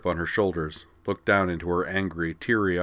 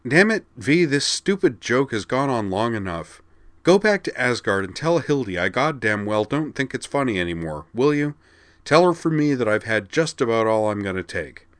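higher and louder, furious; angry rant; 5 semitones higher, 5 dB louder than usual. Acted. Corwin, sick of the joke, snapping at Vigdis. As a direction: let the anger boil over. Corwin loses his temper.

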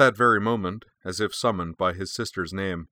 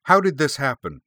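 much higher and louder demand; 7 semitones higher, 7 dB louder than usual. A narrator's reading. Corwin demanding answers from Keiko, loud and high. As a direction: round on her and demand an answer. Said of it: "Corwin demanded".

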